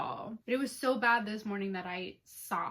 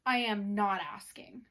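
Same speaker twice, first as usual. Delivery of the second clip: ordinary talk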